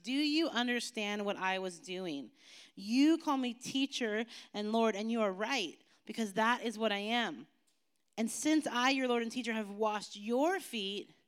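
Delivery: measured reading of a passage; scripture reading. Acted. Pastor reading scripture to the youth group, measured. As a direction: read the passage to the kids steadily.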